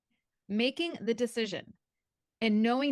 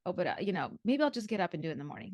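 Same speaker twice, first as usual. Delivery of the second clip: mock excuses; faster than usual. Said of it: "I was like".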